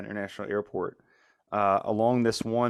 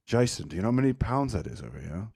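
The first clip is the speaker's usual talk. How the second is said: Gary impression; faster than usual. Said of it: "I can do a good Gary".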